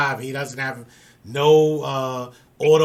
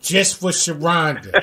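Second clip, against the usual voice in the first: New York accent; 2 semitones higher, slower than usual. Real, not acted. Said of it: "Now you got my New York accent coming out".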